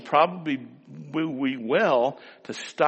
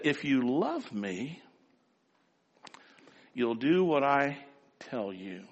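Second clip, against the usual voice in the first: mother's soft saying; 2 semitones lower, 7 dB quieter than usual. Retold or imitated. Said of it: "She said".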